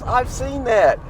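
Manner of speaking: put-on high, eager young man; excited guy voice. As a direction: quote him high and eager. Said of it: "He goes".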